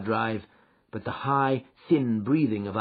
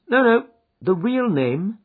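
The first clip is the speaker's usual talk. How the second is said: sweetly; 12 semitones higher, 8 dB louder than usual. Acted. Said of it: "said Holmes sweetly".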